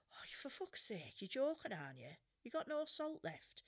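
mildly exasperated retold complaint; a touch of indignant disbelief; masculine exasperation. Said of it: "my masculine side went to say".

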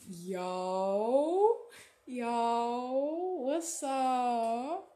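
loud, cool pull-up hello; imitating greeting. Pulling up in a loud car, cool greeting. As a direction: greet the block casually. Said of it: "be like".

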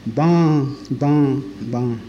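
low it like a weary ox; ox's lowing. Acted. Reciter ends the ox's poem with its call, lowing.

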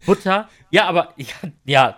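loud disbelieving butter; shocked at the very idea; incredulous. Real, not acted. Fassungslos über Brot ohne Butter.

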